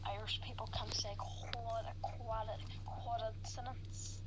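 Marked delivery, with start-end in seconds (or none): 1.2-4.2 false starts on "quad-", then "coincidence" stretched out; struggling to pronounce. Shown as a demonstration. Irish gamer showing a tricky word, struggling to pronounce "coincidence". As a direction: stumble on "quad-" twice, then a slow "coincidence". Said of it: "Irish people can say that word".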